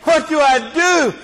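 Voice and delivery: high, slow mock wail of an old man; hammed-up weeping old man; imitating a lamenting old man. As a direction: voice his cry of conviction. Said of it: "this guy was weeping and crying and lamenting".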